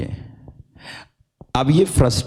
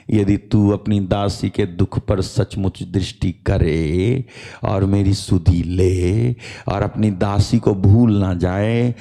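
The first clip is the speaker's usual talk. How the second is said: tearful prayer; 4 semitones lower than usual. Acted. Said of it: "वो रो रो करके ये कहती है".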